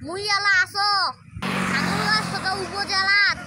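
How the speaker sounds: chatty northern Bengal village dialect, lightly done; Thakurgaon dialect. Shown as a demonstration. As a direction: speak it like a local from Thakurgaon. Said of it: "দেশি ভাষায় ... কথা বলি".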